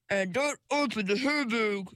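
a pointed little warning; talking handbag. A narrator's reading. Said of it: "said the handbag".

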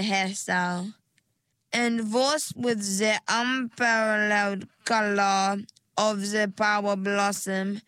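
lightly voiced hair stylist; salon stylist voice. Stylist character's voice.

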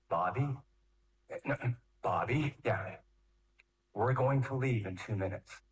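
low, measured instruction with pauses; calm parent. Acted. Parent face to face with Bobby before leaving, calm and firm. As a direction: talk a small child through it, low and patient.

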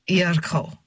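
put-on "Yerko" slow, in a thick accent with a sounded r; name said correctly, solemnly. A narrator's reading. Foreign man correcting his name, "Yerko" with sounded r, solemn.

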